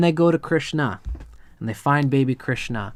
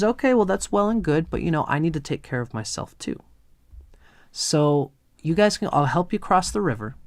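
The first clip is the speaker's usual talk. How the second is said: bargaining boatman. Retold or imitated. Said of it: "And the man says".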